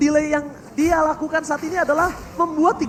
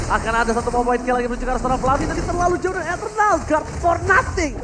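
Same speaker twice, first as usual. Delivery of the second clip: usual speaking voice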